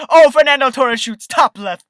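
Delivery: loud, rising play-by-play yell; excited goal call. Real, not acted. Calling his own goal.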